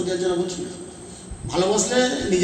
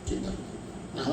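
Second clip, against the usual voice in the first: whispered think; 4 semitones lower, 12 dB quieter, much slower than usual. Real, not acted. Preacher urging reflection.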